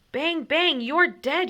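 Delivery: put-on high, loud kid shout of bang bang; yelled. A narrator's reading. Stanley shooting at the enemy, yelling high and loud. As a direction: shout it like a kid playing guns. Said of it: "yelled Stanley".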